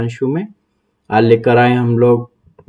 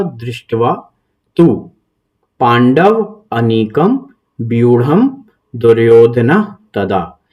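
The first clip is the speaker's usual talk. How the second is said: slow recitation; 3 semitones lower, slower than usual. Shown as a demonstration. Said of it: "श्लोक पढ़ना".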